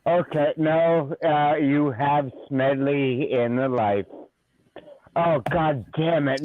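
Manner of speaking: slurring a bit after drinking all day; loose, tipsy delivery. Real, not acted. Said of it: "Now that I've been drinking".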